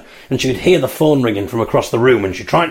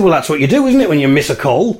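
higher, insistent self-justification; defensive protest; 4 semitones higher than usual. Retold or imitated. Fiancée defending herself to the family, defensive. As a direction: insist it's the obvious thing to do.

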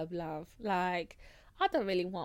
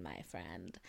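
deep low voice; 12 dB quieter than usual. Shown as a demonstration. Sign-off dropped low.

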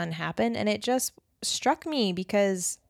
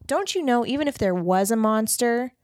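playful dad promise. Retold or imitated. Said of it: "he was just like".

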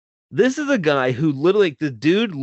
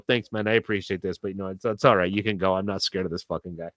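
lower, softening thank-you; quietly voiced grateful driver; retold calm reassurance; 5 semitones lower, 4 dB quieter than usual. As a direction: gently let him off the hook, trailing softer. Grateful driver releases his defender.

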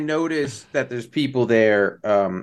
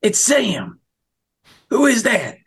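hissed whisper calling out; whisper yelling; 10 semitones higher than usual. Acted. Sneaking up on camp at night.

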